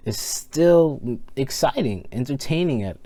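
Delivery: "entertaining" breaks in pitch; voice crack. Real, not acted. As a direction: voice cracking mid-sentence. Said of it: "voice crack".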